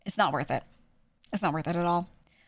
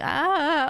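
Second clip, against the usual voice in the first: high, louder pushed-out "ah"; projected "ah"; 9 semitones higher, 5 dB louder than usual. Shown as a demonstration. Streamer showing a phone voice, projected "ah". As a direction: push the voice up and out on an "ah". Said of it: "I just feel the need to".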